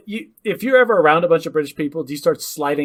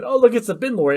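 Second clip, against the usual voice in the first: giggly tourist; 8 semitones higher, 4 dB louder than usual. Pretend. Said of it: "and we said".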